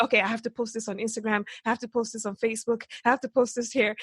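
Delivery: rapid excited retelling, words tumbling out fast; breathless mock panic, very fast; frantic rush. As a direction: rattle it off like you can't post fast enough.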